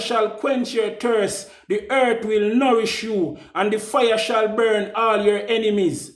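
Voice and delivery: intoned like a decree being read; solemn proclamation. Acted. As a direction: ceremonial verdict reading. Reads a verdict proclamation.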